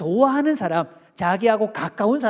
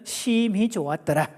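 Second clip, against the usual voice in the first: standard Seoul speech. Shown as a demonstration. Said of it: "서울, 경기 표준은".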